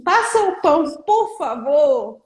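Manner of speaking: polite request. Shown as a demonstration. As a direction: ask nicely, drawing out por favor. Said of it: "Pra ela falar assim".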